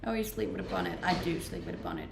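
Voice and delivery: normal talking voice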